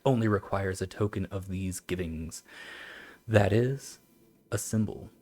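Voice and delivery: even, formal recital; old text reading. Acted. Streamer reads how devils are nourished, even formal recital. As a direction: read it steadily like an old treatise.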